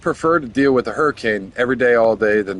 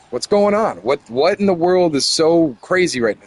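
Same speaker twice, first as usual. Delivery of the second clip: higher-pitched, mildly alarmed questions; retold panic; 5 semitones higher than usual. Father retelling the panicked morning of the tornado, mildly alarmed. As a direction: act out bewildered alarm, not full terror. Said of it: "they're panicking".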